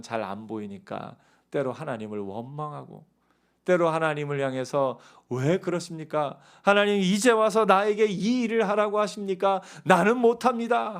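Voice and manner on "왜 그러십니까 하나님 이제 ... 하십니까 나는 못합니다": protesting like Moses. Retold or imitated. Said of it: "하고 모세처럼 우리가 생각할 때가".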